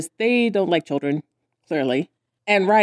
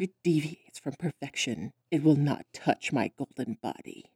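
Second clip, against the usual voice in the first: mock vain star; 6 semitones lower, 11 dB quieter than usual. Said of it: "that's not exactly what he says".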